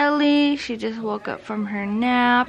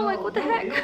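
laughing; 9 semitones higher, 8 dB quieter, faster than usual. Real, not acted. Laughing at prices.

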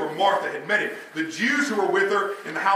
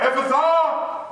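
drawn-out, raised cry; 4 semitones higher, slower than usual. Retold or imitated. Preacher voicing Jesus healing the deaf man, crying out. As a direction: cry the word out slowly. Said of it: "He cries out".

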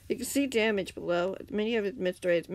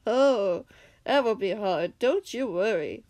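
louder, smiling menace; ominous villain; 5 dB louder, slower than usual. Acted. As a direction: say it with a sinister smile. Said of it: "the man said with an ominous smile".

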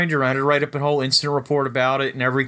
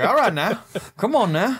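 coaxing a reindeer; 8 semitones higher than usual. Pretend.

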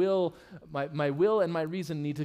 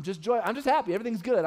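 mock happy; 6 semitones higher, 4 dB louder, faster than usual. Acting out an emotion.

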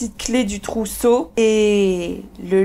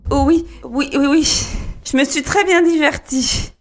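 slightly higher, hurried little yeses; nervous wife; 5 semitones higher than usual. Acted. Wife reassuring her suspicious husband, nervously. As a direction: answer uneasily, tripping over the yeses.

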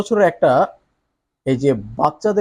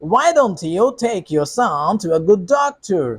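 other voice; 4 semitones higher, much slower than usual. Shown as a demonstration. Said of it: "অন্য গলায় বলতে পারি".

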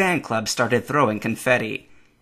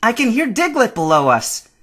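high, louder creature voice; Pikachu's voice; 11 semitones higher, 5 dB louder than usual. A narrator's reading. Pikachu warns Ash about Diglett below, high creature voice. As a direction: keep it pitched up, alerting a friend. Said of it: "Pikachu said as they ran".

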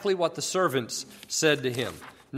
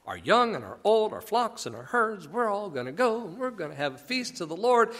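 higher, lilting list in rising and falling waves; almost sing-songy; 6 semitones higher than usual. Acted. Moses happily telling Pharaoh who's going, sing-song lilt. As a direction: lilt through each pair like a verse. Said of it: "it's almost sing-songy".

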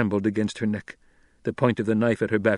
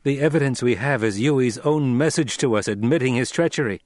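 lightly voiced, louder insistence; firm young lord; 3 semitones higher, 5 dB louder than usual. Son giving proof to the captor, firm. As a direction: state the proof firmly.

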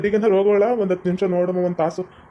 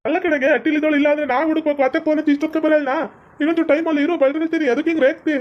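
angry retort; 6 semitones higher, faster than usual. Acted. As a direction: fire it back at her, quick and heated. Son snaps back at mother.

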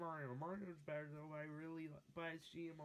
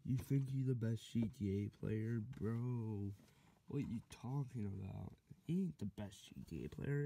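lower, loud boastful rival voice; cocky gamer character; 5 semitones lower, 3 dB louder than usual. Acted. The rival gamer boasting he is the best, loud and lower. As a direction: puff up as a bragging rival.

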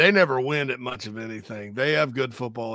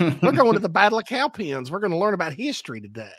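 lilting, raised-pitch Spartanburg Southern lady; Spartanburg middle-aged woman accent; 4 semitones higher than usual. Acted. Teacher announcing a history field trip, Spartanburg woman's accent. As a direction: play a Spartanburg schoolteacher in local accent. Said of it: "that accent's peak Spartanburg middle-aged woman".

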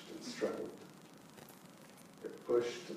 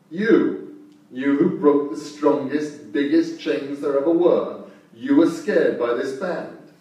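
loud, slow, mocking Thor; taunting shout; 4 semitones higher, 10 dB louder than usual.

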